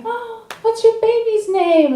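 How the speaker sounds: high, bright-eyed cashier question; chirpy cashier voice. Retold or imitated. Comic imitating an Old Navy clerk asking a mom, high and chirpy. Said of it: "the lady behind the counter was like".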